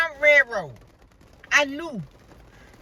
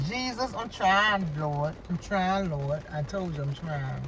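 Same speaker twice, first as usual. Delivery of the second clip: quiet plea to God; 6 semitones lower, 6 dB quieter, slower than usual. Real, not acted. Praying to Lord while holding back.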